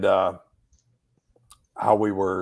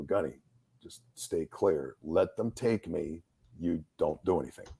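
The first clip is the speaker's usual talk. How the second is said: calm instruction; 3 semitones lower, 6 dB quieter than usual. Retold or imitated. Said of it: "I go".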